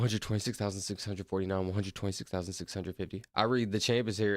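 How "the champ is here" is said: a hint of Boston accent. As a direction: read it lightly as a Bostonian. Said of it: "in a Boston accent".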